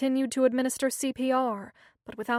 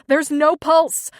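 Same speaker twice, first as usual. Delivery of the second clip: loud, higher, slow panicked scream; 5 semitones higher, 13 dB louder, slower than usual. A narrator's reading. Angela screaming to Lourdes that Jenny has no pulse, loud scream. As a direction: shout the alarm across the room. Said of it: "she screamed to Lourdes".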